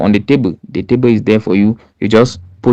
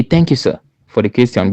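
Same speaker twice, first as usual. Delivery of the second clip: courteous thanks, a touch softer; polite thanks; 3 dB quieter than usual. Shown as a demonstration. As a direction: thank the jury politely before answering. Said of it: "you say".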